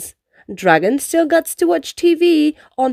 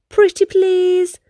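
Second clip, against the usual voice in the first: sweet, higher, drawn-out plea; very nice ask; 7 semitones higher, slower than usual. A narrator's reading. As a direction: coax her gently, stretching it out. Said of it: "Racer asked in a very nice way".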